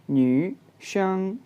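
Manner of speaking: "न्यूशंग" stretched slowly, each syllable clear; slow model word. Shown as a demonstration. Teacher repeating "न्यूशंग" slowly for the class. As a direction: draw out "न्यूशंग" carefully. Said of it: "तो ये बनेगा न्यूशंग".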